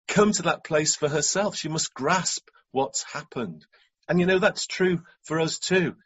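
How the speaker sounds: ordinary talk, nothing marked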